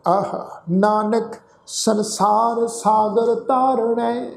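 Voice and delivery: slow, measured chant of the verse; scripture recitation. Acted. Teacher reciting the shalok for the sangat to repeat, slow chant. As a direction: intone each line slowly for them to follow.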